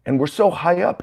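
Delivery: high-pitched panicked cry without the volume; acted panicked squeal; mock screaming. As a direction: cry out in alarm, held back. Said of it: "they're all screaming".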